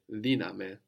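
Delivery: diname accented on di; stress on first syllable. Shown as a demonstration. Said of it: "don't need to add any syllable".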